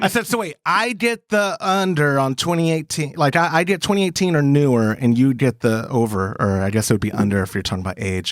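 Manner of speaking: ordinary talk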